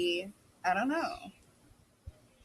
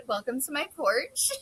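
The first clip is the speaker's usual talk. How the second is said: host greeting; 6 semitones higher than usual. Pretend. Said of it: "I've always wanted to say that".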